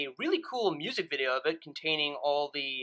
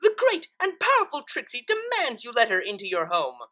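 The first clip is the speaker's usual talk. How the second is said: a lightly voiced, pompous showman mare; boastful Trixie; 5 semitones higher, 3 dB louder than usual. Trixie demanding entry at Twilight's door, lightly pompous. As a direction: announce yourself grandly, a bit higher.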